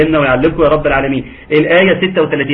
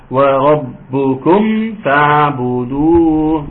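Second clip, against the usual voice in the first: slow chanted tajweed; Quran recitation; much slower than usual. Shown as a demonstration. Teacher reciting for students, slow chant. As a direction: recite وربكم فاعبدوه in a long drawn chant.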